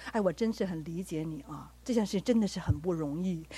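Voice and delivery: understanding parent. Retold or imitated. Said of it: "你都要跟他讲说：".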